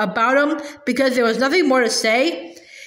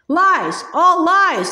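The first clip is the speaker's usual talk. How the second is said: angry denial; 4 semitones higher, 3 dB louder, much slower than usual. A narrator's reading. Badger denies angrily.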